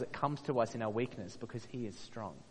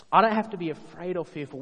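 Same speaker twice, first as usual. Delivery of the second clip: forceful declaration; 5 semitones higher, 8 dB louder than usual. Real, not acted. Preacher builds to a climax.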